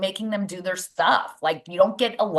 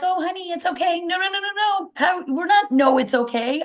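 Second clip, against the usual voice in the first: much higher, sing-song coddling parent; mock doting mom; 12 semitones higher than usual. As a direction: coo like an overprotective mother. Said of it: "then you're like".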